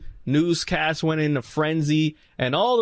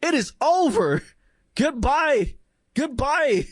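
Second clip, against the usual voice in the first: mock dismissive; 6 semitones higher than usual. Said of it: "And I was like".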